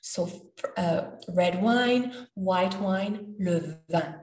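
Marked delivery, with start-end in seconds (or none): none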